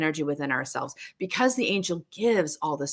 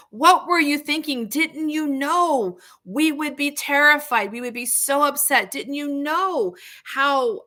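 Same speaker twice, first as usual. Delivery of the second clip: a panicked mother pleading with her lost son; frantic mother; 8 semitones higher, slower than usual. Retold or imitated. Mother Mary scolding young Jesus in a higher, frantic voice.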